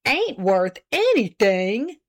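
slow, wounded repeat of "Ain't worth anything"; hurt tones. A narrator's reading. Husband stung by wife's jab, slow and hurt. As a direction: stretch it out, stung. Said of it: "in hurt tones".

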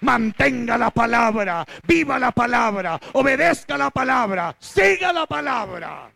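rising, urgent sermon cadence; fervent preaching. Acted. Pastor urging the congregation to keep the word, fervent preaching. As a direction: preach it hard to the flock.

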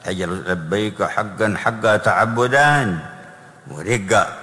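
slow, drawn-out reverent recitation; slow intoned quote. Real, not acted. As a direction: stretch each word of the call. Quoting the Prophet's talbiya.

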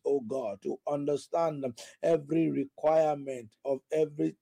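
rhythmic, pleading prayer with repeated cries of oh God; fervent prayer. Acted. Preacher praying for the congregation's guidance, fervent prayer voice. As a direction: pray aloud over the church, mixing in tongues.

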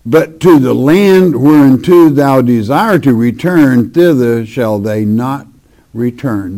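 measured, solemn Bible reading; sermon scripture voice. Acted.

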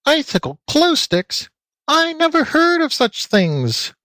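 very high, slow squealing; high piglet voice in disbelief; little pig squeal. A narrator's reading. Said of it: "squealed Floppy".

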